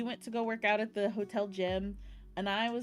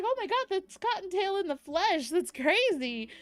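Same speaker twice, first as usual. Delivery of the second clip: starstruck excitement; 8 semitones higher than usual. Retold or imitated. Retells seeing performer in person.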